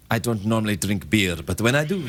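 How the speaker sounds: deadpan ad-voice parody line; low, smooth beer-ad delivery; Most Interesting Man parody. Pretend. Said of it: "that's what he talked like".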